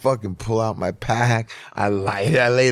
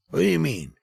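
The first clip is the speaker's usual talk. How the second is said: dad's voice pitched much higher, fast, brushing it off; dad on the phone; 9 semitones higher than usual. Retold or imitated. Dad on the phone telling mom to let him smoke, dismissive. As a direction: play the easygoing dad who sees no problem. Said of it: "He's like".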